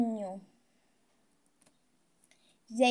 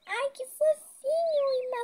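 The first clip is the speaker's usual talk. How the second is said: delighted squeal; 13 semitones higher, 4 dB louder than usual. Real, not acted. Seeing baby chicks.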